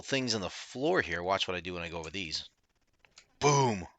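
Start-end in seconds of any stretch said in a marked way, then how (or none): 3.4-3.9 excited. Real, not acted. Game effect exclaim.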